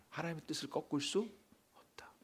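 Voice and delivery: ordinary delivery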